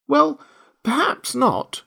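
high, placating Alice; soothing tone. A narrator's reading. Alice placates the offended mouse, soothing. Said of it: "in a soothing tone".

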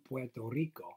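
Puerto Rico softly, in an American accent; American-accented Spanish. Shown as a demonstration. Husband attempting Puerto Rico for his wife, American accent. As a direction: say Puerto Rico as an English speaker would. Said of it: "Say it without an accent".

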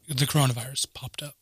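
soft, voiceless reveal; dramatic whisper. Retold or imitated. Husband telling friends his search result, in a hushed whisper. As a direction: drop to a whisper for the big reveal.

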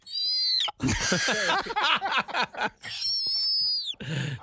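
high piercing hawk cry; hawk screech. Shown as a demonstration. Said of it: "A hawk".

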